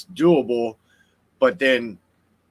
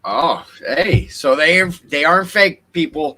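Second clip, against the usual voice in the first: excited; 6 semitones higher, 5 dB louder than usual. Real, not acted. Excited announcement to viewers.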